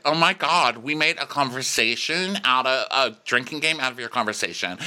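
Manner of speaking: a hint of a chatty party girl; Olivia. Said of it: "And Olivia's like".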